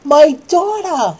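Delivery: high, loud, slow cry of a grieving father; hammed-up wailing father; anguished cry. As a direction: wail it like a father in despair. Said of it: "he cried out".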